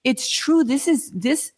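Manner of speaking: high, breathless disbelief at good news; reliving the moment the bills stopped, excited; excited relief. Retold or imitated. Telling the host how the bills stopped, excited.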